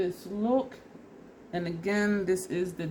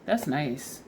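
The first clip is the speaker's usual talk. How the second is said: ordinary delivery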